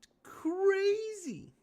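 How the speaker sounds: very high, slow falsetto "It's crazy."; high drawn-out falsetto. Pretend. Repeats the phrase, then mocks it.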